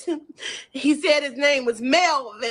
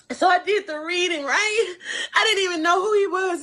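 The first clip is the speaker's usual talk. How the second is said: fake crying; 2 semitones higher than usual. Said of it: "the fake crying is too much".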